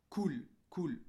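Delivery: "cool" ending on a bare L; final L without vowel. Shown as a demonstration. Teacher demonstrating soukoun to a pupil, final L without vowel. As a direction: close "cool" on the L, no vowel after it. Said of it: "je l'ai exprimé sans voyelle".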